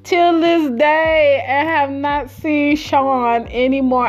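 dramatic disbelief. Real, not acted. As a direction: drag out the punchline in amused disbelief. Dramatic punchline about Sean vanishing.

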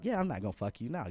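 plainly spoken payback in a retold exchange; retold refusal. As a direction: voice it openly to the other person. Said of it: "so I'm like".

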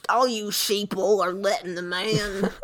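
loud, drawn-out conspiracy rant; mock right-winger. Improviser playing a man railing at sheeple, slow loud mock rant. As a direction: stretch it out like a ranting right-winger. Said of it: "right-winged and".

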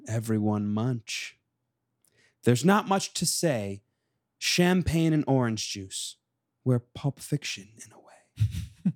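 measured, mostly slow poem delivery; slam poetry reading. Acted. Poet reading to the co-host, measured slam delivery. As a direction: set each line apart with pauses. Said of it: "Do you want me to do a reading".

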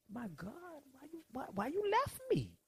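high, strained plea to God; anguished cry of Jesus. Retold or imitated. Jesus on the cross crying out to God, high and anguished. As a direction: cry out high, pleading and forsaken. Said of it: "the Lord says".

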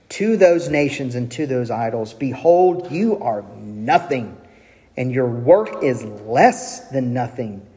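measured verdict, slowing down on the closing phrases; solemn pronouncement. Acted. God passes sentence on the idols, solemn pronouncement. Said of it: "he gives this pronouncement".

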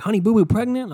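high, disbelieving question; incredulous reaction. Retold or imitated. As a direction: repeat the headline back in mock disbelief. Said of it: "I'm like".

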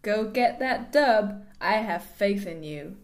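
slow mock-American encouragement; put-on American accent. Cheering on the gaming neighbour, slow American accent. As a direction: drawl it as an American texter. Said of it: "apologise there for the accents".

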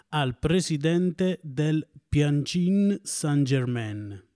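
Tianjin Saint-Germain spelled out slowly, every syllable clear; slow, careful announcement. Shown as a demonstration. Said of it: "un nome difficile anche da dire".

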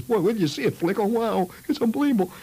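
put-on high, breathless boy's amazement; awed kid. Spooked friend marveling at the finger, high and awed. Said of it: "He says".

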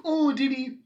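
high, gasping "did he?"; mock surprise. Viewer reacting to the twist, high mock surprise. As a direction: squeal it like a shocked viewer. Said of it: "anyone that's like".

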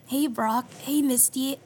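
a hint of high, raspy cartoon hero; lightly raspy voice, calling out to friends; Ash Ketchum. Cohost shows partner the cartoon trainer's voice, lightly high and raspy. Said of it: "like the high, like, raspy voice".

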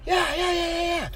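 high, rapid-fire retold agreement; mock reassurance. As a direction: brush off worry with high repeated yeses. Retelling brushing off worried medics.

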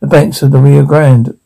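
put-on fast, heavy Mexican accent. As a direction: rush it in a thick Mexican accent. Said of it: "heavy accent".

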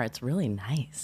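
slow soft radio host voice; calm public radio host; Terry Gross voice. Pretend. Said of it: "pretending to be Terry Gross".

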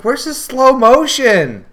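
puzzled. Retold or imitated. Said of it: "and I'm like".

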